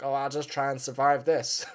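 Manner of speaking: a faint attempt at a New Zealand accent; bad New Zealand accent. Voicing Dan Hooker giving up, weak New Zealand accent. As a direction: try a Kiwi accent and barely land it. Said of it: "Can't do a New Zealand accent".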